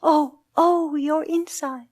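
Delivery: storyteller's echo of another's pain; echoed moan. A narrator's reading. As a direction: moan back in sympathy. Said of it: "they moaned".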